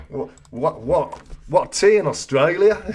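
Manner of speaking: badly faked Australian accent; awful Australian accent. Host repeats his quiz question, awful Australian accent. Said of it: "I do an awful Australian accent".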